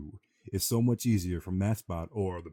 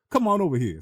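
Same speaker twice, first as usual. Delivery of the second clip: beckoning call; 10 semitones higher, 7 dB louder than usual. Retold or imitated. Carnie waving him over.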